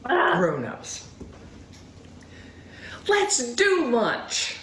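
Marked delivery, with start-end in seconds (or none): 3.1-4.6 slow, drawn-out offer; slow invitation. Acted. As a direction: stretch each word out slowly.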